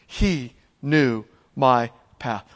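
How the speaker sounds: low, quiet, slow reverent line; tender quiet preaching; soft and slow. Acted. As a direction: hush it like a comfort. Softened key line.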